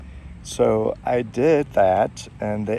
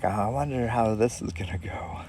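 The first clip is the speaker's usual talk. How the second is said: under the breath, wondering to yourself; whispered thought; 3 dB quieter than usual. Retold or imitated. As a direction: whisper a nervous private thought. Nervous inner thought before approaching.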